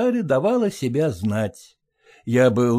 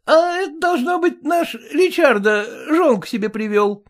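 a raised, gruff fireman's voice; 13 semitones higher than usual. Acted. Firemen joking about the stray dog, fireman's voice. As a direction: play the old fireman guessing aloud.

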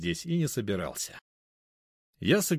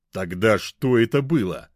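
louder, bullish demand; sullen demand; 7 dB louder than usual. A narrator's reading. Mishka pressing Anya, sullen and louder. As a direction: glower and push for an answer. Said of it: "набычился Мишка".

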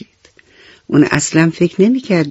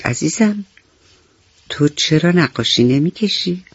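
gentle teacher; 5 dB quieter than usual. Acted. Kind teacher asks monkey gently.

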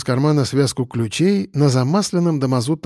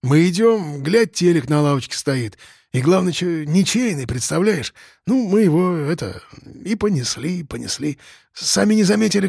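a lightly voiced boozer, higher, rambling excuses; wheedling petty drunk; 4 semitones higher than usual. Piston excuses the TV theft to the cop, wheedling. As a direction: spin the tale like a guilty drunk.

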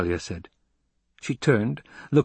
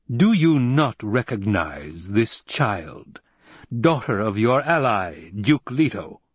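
slow, deliberate questioning; measured imperial reproach; incredulous Emperor; 2 semitones higher, slower than usual. Acted. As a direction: question as a ruler, with mild disbelief.

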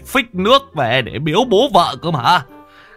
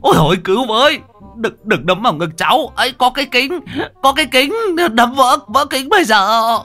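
a beaten man howling, much higher and louder; comic high-pitched wail for rescue; howling for help; 13 semitones higher, 3 dB louder than usual. A narrator's reading. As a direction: cry out to the village while being punched. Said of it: "miệng rú lên".

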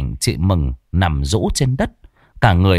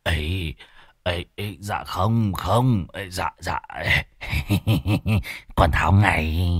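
much softer, stammering nervous yes-no; mumbled frightened excuses with a nervous laugh; flustered denial; 3 semitones lower, 5 dB quieter, slower than usual. Acted. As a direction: wave it off in a quiet panic. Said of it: "vội vàng xua tay".

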